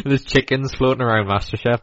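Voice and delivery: talking through laughter; laughing. Real, not acted. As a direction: laugh while telling the joke. Laughing at own joke.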